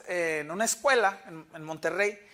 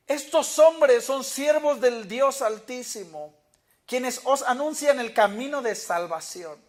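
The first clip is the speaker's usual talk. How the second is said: loud, slow proclaiming cry; slow loud mock proclamation; 4 semitones higher, 6 dB louder, slower than usual. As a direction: call it out like the possessed girl following them. Girl crying out after Paul.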